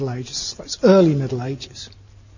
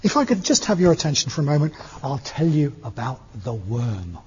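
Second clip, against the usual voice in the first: posh translation voice. Retold or imitated. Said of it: "Which translated means".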